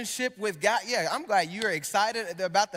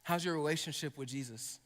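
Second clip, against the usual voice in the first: soft, searching question; 5 semitones lower, 7 dB quieter than usual. Real, not acted. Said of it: "let me ask you this question".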